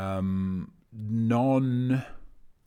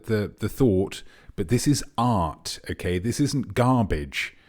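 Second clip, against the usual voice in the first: put-on a light Montenegrin accent, scolding gently; lightly put-on Montenegrin accent defending art. Artiste telling the mover Ivan it's art, in a light Montenegrin accent. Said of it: "which is why I did a pretty good Montenegrin accent there".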